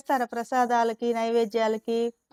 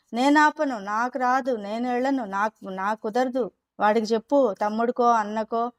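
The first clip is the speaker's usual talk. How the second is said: lightly mimicked sulky girl refusing the chore; stubborn refusal. A girl dodging her mother's chore, mild sulky refusal. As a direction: whine off the chore onto the others, half-played. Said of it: "అంటుంది సమన్విత".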